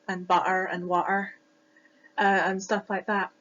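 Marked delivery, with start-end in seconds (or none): 0.3-1.3 "butter" and "water" with glottal stops for each T; dropped Ts. Shown as a demonstration. Student showing Scottish T glottling, "butter" and "water" without Ts. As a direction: say "butter" as bu'er and "water" as wa'er. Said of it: "where we drop".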